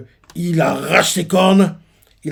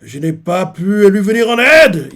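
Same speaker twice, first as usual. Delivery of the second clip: tearful confession; 5 semitones higher, 6 dB louder than usual. Retold or imitated. Harald confesses with tears in his eyes, anguished. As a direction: speak through held-back tears. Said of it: "il a des larmes aux yeux".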